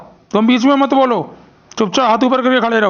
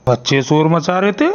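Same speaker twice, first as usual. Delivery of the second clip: suspicious principal; 5 semitones lower than usual. Acted. Principal echoes teacher suspiciously.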